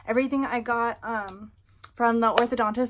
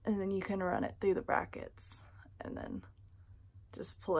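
talking while flossing teeth; fingers in mouth; 8 dB quieter than usual. Real, not acted. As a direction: hand over mouth. Seen 1: Fingers pull floss through braces, hand covering mouth while speaking.

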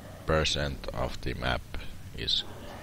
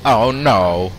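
fake Italian accent. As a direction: pretend Italian gamer accent. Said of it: "In Italiano accident. I mean accent".

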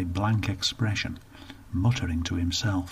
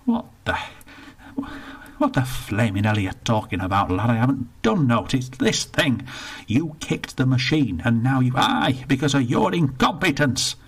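put-on mildly raised, blustering old Bertie; blared; 4 semitones higher, 3 dB louder than usual. Bertie raising a fist at the attendant, blaring. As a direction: bluster back at the accusation. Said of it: "blared Bertie".

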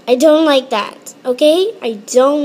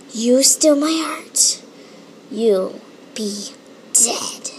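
mock threat; slower than usual. Mock threat over copied drawing.

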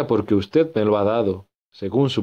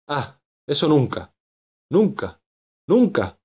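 building shout; 6 semitones higher than usual. Acted. Augusto refusing to die, building shout. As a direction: refuse harder with every nunca. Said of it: "gritó".

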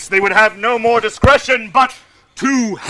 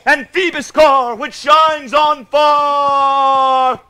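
ranting tyrant. Pretend. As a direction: rant it like a stage tyrant. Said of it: "I could play Hercules rarely".

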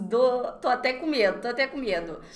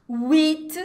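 huit said loud with clear final t; stressed huit; 4 semitones higher, 7 dB louder than usual. Shown as a demonstration. Teacher stresses huit for students, loud. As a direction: punch huit and sound the t. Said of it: "Isso vai acontecer com".

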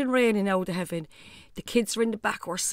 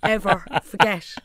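loud burst on never; mother stressing the worst day of her life; shouted emphasis; 7 dB louder than usual. Real, not acted. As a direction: punch it out loudly.

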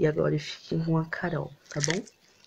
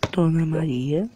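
calling out; 7 dB louder than usual. Acted. Calling patient across clinic.

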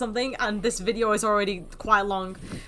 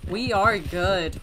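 slow emphasis; much slower than usual. Real, not acted. Slow emphatic repeat of "We're good.

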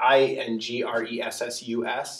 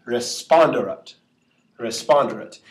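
responderat with the accent on SPON; re-SPON-de-rat, short unstressed e after the stress; stress on third-last syllable. Shown as a demonstration. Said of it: "so it would go here".

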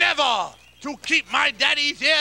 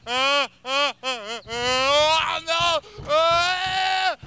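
panicky. Acted. Dreads the fatal sneeze.

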